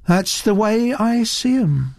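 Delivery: put-on calm, mild young artist; placid. A narrator's reading. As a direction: answer placidly, untroubled by criticism. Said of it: "said Naomi placidly".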